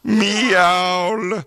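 high, drawn-out mock meow. Mocking the contestant's meow, high and long. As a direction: meow like a bad impression. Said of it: "mocking her meow".

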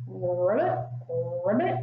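low croaky ribbit; frog ribbit. Shown as a demonstration. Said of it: "And what do they say?".

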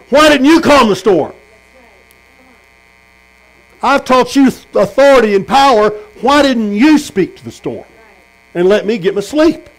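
an annoyed master woken for nothing; exasperated scolding. Acted. Jesus scolding disciples who woke him, exasperated.

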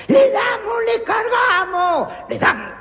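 grito de ataque, agudo y fuerte. Acted. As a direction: arengar gritando a la tropa. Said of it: "gritó el sargento". (grito de ataque del sargento)

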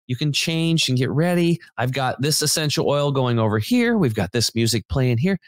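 high, sweet greeting of a nice lady; nicest lady. Retold or imitated. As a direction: imitate a sweet massage therapist welcoming a regular client. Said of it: "she was just the nicest lady".

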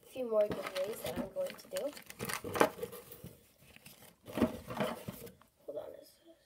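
talking while chewing gum; words round a wad of gum. Real, not acted. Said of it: "I am chewing gum right now".

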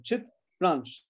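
CHITRANSH as two separate beats: Chit, ransh; small gap inside Chitransh; split into syllables. Shown as a demonstration. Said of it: "two syllables".

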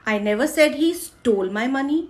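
stole is stressed, as if he only borrowed it. Shown as a demonstration. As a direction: lean on stole as if he only asked. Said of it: "चुराए नहीं, मांगे". (stole पर ज़ोर, चुराए नहीं मांगे)

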